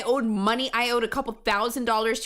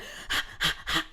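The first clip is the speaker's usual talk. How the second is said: hyperventilating gasp; 4 dB quieter than usual. Retold or imitated. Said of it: "going from the".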